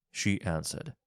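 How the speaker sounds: ordinary delivery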